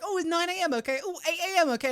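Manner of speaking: high, singsong mock receptionist; chirpy mock receptionist voice; mocking booking clerk. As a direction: parody the chirpy scheduler. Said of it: "they always, like, assume that".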